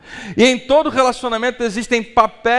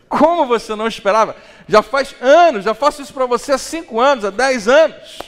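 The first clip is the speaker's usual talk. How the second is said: indignant wife; 5 semitones higher, 4 dB louder than usual. Pretend. Wife voiced, protesting years of cooking.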